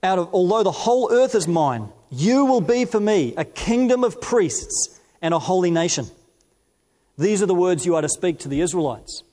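measured, deliberate Bible reading; scripture reading. Acted. Preacher reading First Peter to the congregation, measured and solemn. Reads God's words from Exodus.

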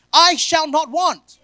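loud, high and slow; proud proclamation. Acted. Preacher to congregation, loud slow proclamation. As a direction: boast every word. Boasting the verse.

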